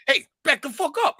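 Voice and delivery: mock warning to back off; acted tough guy. Retelling his line chasing the actor off. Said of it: "And I'm like".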